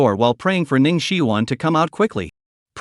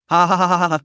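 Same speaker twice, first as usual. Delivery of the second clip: a touch of manic cackling; mild mad laughter; 3 semitones higher than usual. Acted. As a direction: laugh like a madman, held back. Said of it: "insane laughter echoed".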